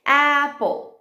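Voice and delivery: APPLE in two parts, "a", "pple"; syllable by syllable. Shown as a demonstration. Teacher giving syllables to blend, broken up. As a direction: say APPLE slowly split for blending. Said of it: "Depois você faz as sílabas".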